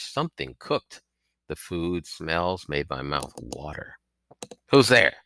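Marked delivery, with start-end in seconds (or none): 4.7-5.2 a hint of a rasping old woman calling out, higher and louder; lightly voiced village hag calling out; rasping old crone. A narrator's reading. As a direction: call through the smoke like a broken-toothed old woman. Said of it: "in her rasping, broken-toothed voice".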